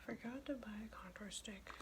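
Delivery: softly voiced mutter to oneself; quiet, half-voiced self-reproach; half-voiced repeat. Real, not acted. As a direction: say it softly, no longer whispering. Repeats the aside more audibly.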